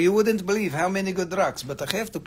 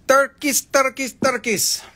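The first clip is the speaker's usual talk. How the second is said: higher and louder, calling out turkeys, turkeys; playful calling out; 7 semitones higher, 4 dB louder than usual. Pretend. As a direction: hawk the word like a market seller.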